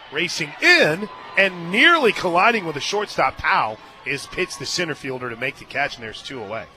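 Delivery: excited softball commentary; live play-by-play. Real, not acted. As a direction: commentate a tense fly ball, peaking mid-play.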